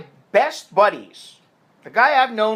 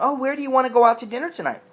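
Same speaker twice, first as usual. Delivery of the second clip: mock eager question; 7 semitones higher, much faster than usual. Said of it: "you say to the woman".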